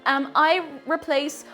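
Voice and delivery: mock wellness influencer. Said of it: "I'm not being like that".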